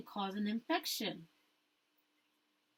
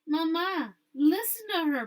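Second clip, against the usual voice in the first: higher, louder anxious plea; pleading; 6 semitones higher, 6 dB louder than usual. Acted. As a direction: beg her to listen. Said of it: "pleaded Esperanza".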